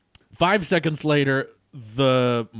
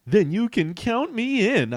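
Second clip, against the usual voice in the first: high, eager agreement; excited; 11 semitones higher than usual. Acted. Hero joining the team, high and excited. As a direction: jump at the offer. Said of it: "I said excitedly".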